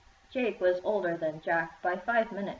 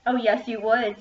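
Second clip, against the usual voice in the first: louder, taunting sing-song; sneering; 3 semitones higher, 6 dB louder than usual. A narrator's reading. Ashley taunting Jake, a sneering sing-song. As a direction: taunt him with a smirk. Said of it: "sneered Ashley".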